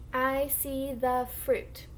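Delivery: slow, stretched model sentence for beginners; slow model reading. Shown as a demonstration. Teacher models the title for the class to echo, slow model reading. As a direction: read slowly word by word. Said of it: "I'm gonna read the sentence first".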